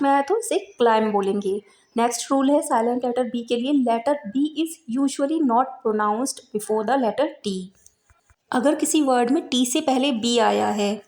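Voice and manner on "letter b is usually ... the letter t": slow, clear reading of a rule; dictating a grammar rule; slow rule dictation. Shown as a demonstration. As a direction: read it out slowly for students to note down. Reads rule slowly.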